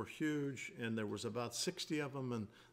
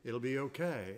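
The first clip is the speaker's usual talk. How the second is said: calm reassurance. Retold or imitated. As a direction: keep telling the team, calmly, to settle. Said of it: "so I kept telling them".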